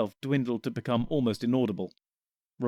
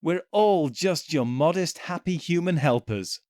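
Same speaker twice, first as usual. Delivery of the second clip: cheerful yell; 5 semitones higher, 3 dB louder than usual. Acted. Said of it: "Sikes yelled cheerfully".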